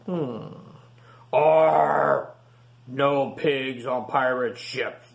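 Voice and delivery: slow pirate growl; growling captain. Acted.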